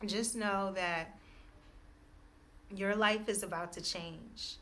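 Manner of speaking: slow, deliberate reassurance with pauses; measured words of encouragement; spiritual message. Real, not acted. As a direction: spell out the promise phrase by phrase.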